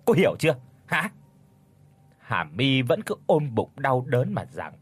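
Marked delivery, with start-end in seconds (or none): 0.0-1.1 mother-in-law threatening divorce, roaring; roaring threat. A narrator's reading. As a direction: hurl the divorce threat at her. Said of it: "gầm giọng quát".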